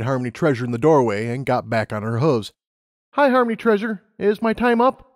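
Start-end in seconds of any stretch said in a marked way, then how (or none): 3.1-5.1 put-on high, eager young mare; Lumina's voice. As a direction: voice her up high, keen and bright-eyed. Lumina greets boss.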